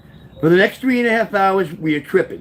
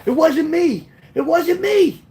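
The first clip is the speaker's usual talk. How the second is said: high-pitched pleading protest; urgent, high retold denial; emphatic denial; 11 semitones higher, slower than usual. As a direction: act out a panicked man denying it. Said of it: "emphatically trying to say to me".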